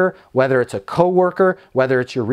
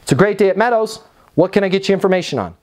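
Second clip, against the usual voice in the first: higher, upbeat phone greeting, quick second half; smile through the phone; 3 semitones higher, much faster than usual. Shown as a demonstration. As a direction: answer positively and get down to business. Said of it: "run you back through the greeting".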